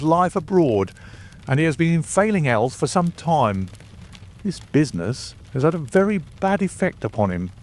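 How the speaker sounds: a self-assured detective delivering news; Lestrade the police inspector. A narrator's reading. Lestrade voiced by narrator.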